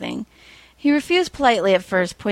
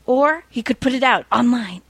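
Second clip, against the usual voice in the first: scheming whisper; 4 semitones higher than usual. Acted. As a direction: whisper the plan to yourself. Villain plotting privately.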